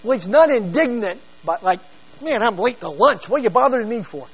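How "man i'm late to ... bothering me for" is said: lightly irritated, brushing someone off; mock annoyed. A mildly impatient man running late for lunch. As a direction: sound put out at the interruption. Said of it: "Not that kind of indignant".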